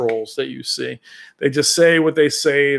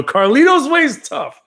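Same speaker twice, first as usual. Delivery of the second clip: Pacino shout; 12 semitones higher, 6 dB louder than usual. Retold or imitated.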